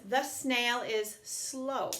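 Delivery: very slow, clear reading of the example; slow model sentence. Shown as a demonstration. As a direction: read the sentence back slowly for young learners. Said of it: "So we have the sentence".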